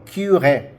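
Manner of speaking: "cure" in two syllables, kyu-RÉ; pronounced accented E. Shown as a demonstration. Teacher explaining the accent to learners, "cure" said kyu-ré. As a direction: sound the final E of "cure" clearly as "ray". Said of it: "We pronounce that E".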